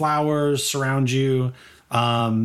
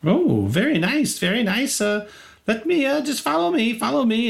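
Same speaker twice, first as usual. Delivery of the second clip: high prim scribe welcoming good sirs; polite scribe; 10 semitones higher than usual. Acted. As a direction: greet the guests with a deferential bow. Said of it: "and he says".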